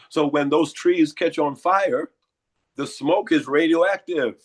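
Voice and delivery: hoarse, congested voice. Real, not acted. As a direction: speak through a hoarse throat. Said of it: "you hear the hoarseness in my voice".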